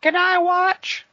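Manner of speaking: put-on high slow kid voice; childish voice. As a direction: play a creepy little kid. Childish creepy voice.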